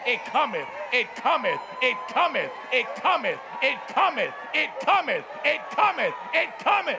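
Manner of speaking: insistent chant climbing in pitch; building preacher's refrain. Real, not acted. Preacher declares the desire is coming, building refrain. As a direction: punch each repeat, rising steadily.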